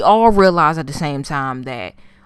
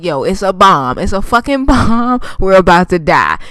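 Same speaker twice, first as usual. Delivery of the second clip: louder, hammed-up alarm with a laugh breaking in; mock panic; 4 dB louder than usual. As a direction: imitate a friend panicking about a bomb. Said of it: "they start fucking panicking".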